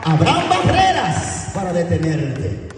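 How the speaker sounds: high-pitched, drawn-out warning shout; impassioned preacher's warning; high preaching cry. Real, not acted. Preacher warns of obstacles ahead.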